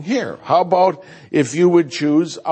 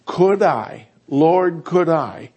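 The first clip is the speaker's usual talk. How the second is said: eager asking; slower than usual. Retold or imitated. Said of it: "To say".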